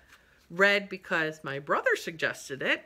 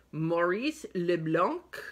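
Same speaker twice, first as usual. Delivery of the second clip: French accent; slower than usual. Shown as a demonstration. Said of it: "There I go again with that French accent".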